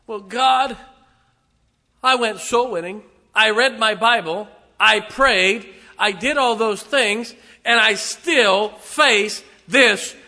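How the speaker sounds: loud, high complaining voice to God; mock-aggrieved plea to God; whining believer. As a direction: play the hurt churchgoer pleading with God.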